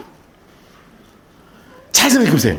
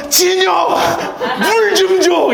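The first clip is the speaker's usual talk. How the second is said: laughing call out; 8 semitones higher, much slower than usual. Retold or imitated. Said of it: "진혁 형제가 가게 앞에 나와서".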